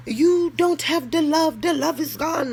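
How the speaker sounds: mocking the ex. Woman mocking her older ex's sulky complaint. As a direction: mimic him sulking that the love is gone. Ex mocked for lacking love.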